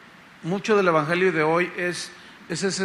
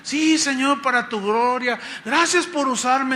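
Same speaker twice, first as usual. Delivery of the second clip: raised-pitch, grateful acted devotion; humble disciple; 5 semitones higher than usual. Disciple thanks the Lord for using him, humbly. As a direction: offer it up thankfully. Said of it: "la humildad empieza a ganar".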